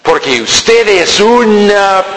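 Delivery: mock insult. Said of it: "sin decir".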